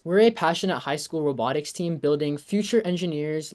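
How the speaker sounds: lively read-out of a sponsorship pitch; reading aloud. Real, not acted. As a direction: read a written pitch out for everyone. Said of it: "I'll read it out loud".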